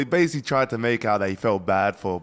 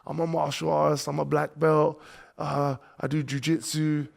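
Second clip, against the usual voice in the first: boastful bragging; 4 semitones higher than usual. Retold or imitated. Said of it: "then he was like".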